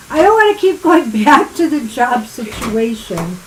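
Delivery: talking through laughter; laughing. Real, not acted. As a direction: giggle through the words.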